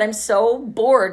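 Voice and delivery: slow, drawn-out boredom; deadpan bored drawl. Retold or imitated. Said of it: "I said".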